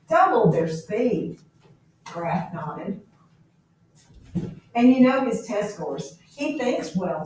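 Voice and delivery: reading the novel aloud to the class, voicing the officers lightly; classroom story reading. A narrator's reading. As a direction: read it to the students like a chapter of a book. Teacher reads novel aloud.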